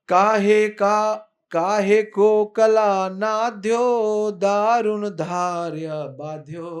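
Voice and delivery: loud, slow, furious chanted verse; angry Dau. Acted. Dau angrily reproaching Yashoda, loud drawn-out chant. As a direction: roar each word in rage. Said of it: "गुस्से में आकर बोले दाऊ जी".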